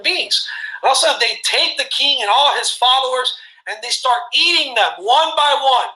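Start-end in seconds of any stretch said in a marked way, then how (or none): none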